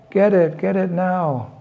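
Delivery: stamp and demand it now; tantrum shout. A narrator's reading. Child Krishna in a tantrum, high pitched demand. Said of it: "kicked his feet and shouted".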